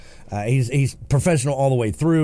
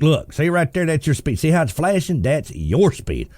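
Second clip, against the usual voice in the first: insistent officer; 4 semitones higher than usual. Retold or imitated. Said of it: "they'd be like".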